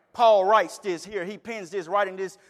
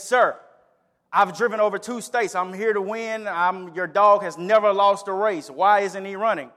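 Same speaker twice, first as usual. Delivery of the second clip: louder, insistent complaint to the owner; upset bettor confronting the dog's owner, raised voice; upset demand; 5 dB louder than usual. Acted. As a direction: press him, you're owed an answer. Angry man confronts owner.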